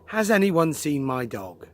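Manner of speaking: "Has anyone seen my dog" starting loud, falling away like a statement; loud start, steadily falling tune to "dog"; no question mark. Shown as a demonstration. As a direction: let "dog" drop, with no questioning rise. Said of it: "With no question mark".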